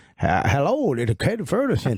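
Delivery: put-on Southern Bayou accent. Retelling a prank phone call answered in a put-on voice: imitating a Southern Bayou accent. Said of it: "a Southern Bayou accent".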